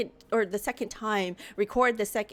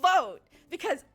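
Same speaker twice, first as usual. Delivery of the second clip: laughing cry; 9 semitones higher, much slower than usual. Real, not acted. Laughing despair at her mistake.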